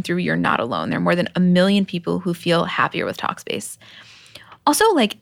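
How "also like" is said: whispered aside; whispering. Real, not acted. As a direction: drop to a breathy whisper. Unvoiced aside in ad read.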